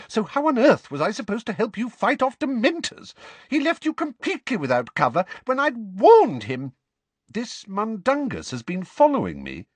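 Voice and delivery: put-on high, flustered old lady voice; a fretful, scolding old neighbour; fussy old woman. Mrs Figg voice again.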